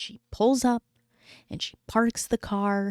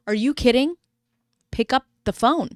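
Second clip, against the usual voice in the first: exasperated; 4 semitones higher, 5 dB louder than usual. Real, not acted. Exasperated at the documentary.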